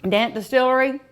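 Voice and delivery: talking through a mouthful; mouth full. Real, not acted. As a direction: say it while still chewing. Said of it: "I can't talk with my mouth full".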